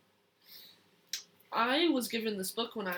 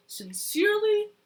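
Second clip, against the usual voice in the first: loud; 10 semitones higher, 7 dB louder than usual. Acted. Child voices farmer's angry letter.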